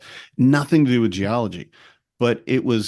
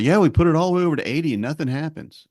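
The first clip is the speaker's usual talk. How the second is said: whiny student voice; 6 semitones higher, faster than usual. Retold or imitated. Retold student reply.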